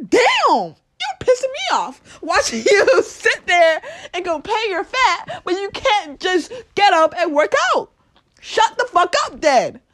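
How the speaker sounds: high, loud, laughing scolding; fired-up laughing rant. Real, not acted. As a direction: scold them through laughter.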